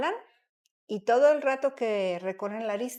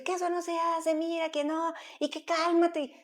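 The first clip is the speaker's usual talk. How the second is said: higher, mock-exasperated mum telling a kid off; a hint of a frazzled mother snapping at her child; scolding mother; 7 semitones higher than usual. Host imitating a mother scolding her tantrum child, lightly mocking.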